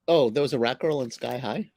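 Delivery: a quick confused whisper aside. Real, not acted. Host whispers a puzzled question to co-host, whispered.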